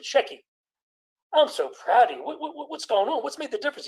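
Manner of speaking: proud mother with a laugh in the voice; a delighted mother laughing as she praises her son; mother's voice, laughing. Retold or imitated. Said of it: "His mother said".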